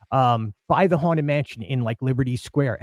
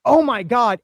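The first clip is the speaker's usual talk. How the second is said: mock excited gasp; 7 semitones higher, 4 dB louder than usual. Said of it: "instead I went".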